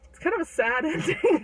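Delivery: amused, breaking into laughter mid-sentence; real laugh in the voice. Real, not acted. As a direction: laugh through the admission. Teller laughs at sad ending.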